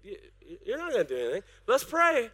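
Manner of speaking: mock doubting pastor. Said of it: "I go".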